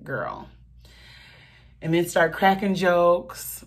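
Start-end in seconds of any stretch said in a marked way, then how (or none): 0.0-0.5 imitating friend. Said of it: "call me right up ... like".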